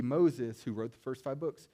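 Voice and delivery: normal talking voice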